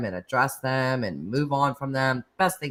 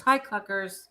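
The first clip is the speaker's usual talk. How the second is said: cutesy greeting; 5 semitones higher than usual. Real, not acted. Greeting a viewer in chat.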